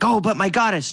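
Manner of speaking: kobold protests his goddess, voice pitched well up; whiny high kobold plea; pleading kobold. Acted. Kobold begging his goddess not to stay, high and pleading.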